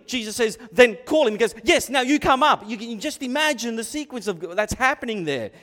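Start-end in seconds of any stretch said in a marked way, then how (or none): 0.7-1.3 loud, raised command; acted loud summons; calling out. Jesus voiced calling over crowd. 1.6-2.7 raised, higher call; acted brisk beckoning; loud summons. Crowd voiced summoning blind man.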